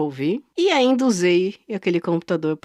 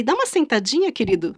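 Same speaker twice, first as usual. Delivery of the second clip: mock sweet; 3 semitones higher, faster than usual. Mock sweet command to seller.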